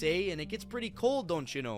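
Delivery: put-on a light Minnesotan accent with a questioning eh. Narrator imitating Minnesotans, light Minnesotan accent. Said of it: "The people there talk like this".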